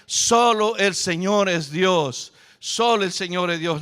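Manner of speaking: slow, loud proclaiming chant; crowd shouting. Retold or imitated. The people shout after the fire falls, slow loud chant. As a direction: call it out slowly like a crowd. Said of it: "empieza a gritar".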